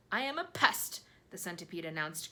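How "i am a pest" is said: grinning broadly. A narrator's reading. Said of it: "grinning broadly".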